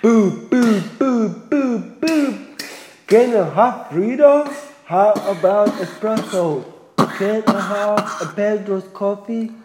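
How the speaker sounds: high silly voice. Pretend.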